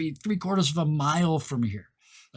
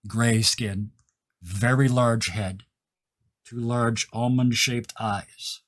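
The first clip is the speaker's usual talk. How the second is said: game master's scene setting; 4 semitones lower than usual. Acted. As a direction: let the reveal out piece by piece. Game master slowly unveils the figure.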